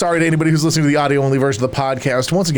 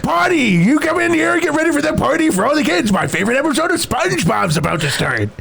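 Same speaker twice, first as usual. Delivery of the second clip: high excited pirate host; Patchy the Pirate voice; 11 semitones higher than usual. Retold or imitated. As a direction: gush like an overeager pirate fan. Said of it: "It's Patchy the Pirate".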